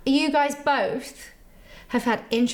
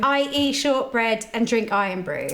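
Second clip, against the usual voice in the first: a line fed in a light Scottish accent. Shown as a demonstration. Host feeding the guest a line in a light Scottish accent. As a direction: model the line in a mild Scottish lilt.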